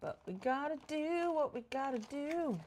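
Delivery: high, singsong resignation; playful resignation. Real, not acted. Player accepting a dull task, playfully resigned. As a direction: lift it up high, resigned to the chore.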